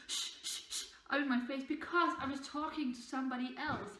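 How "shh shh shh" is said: imitating a shushing teacher. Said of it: "did like this".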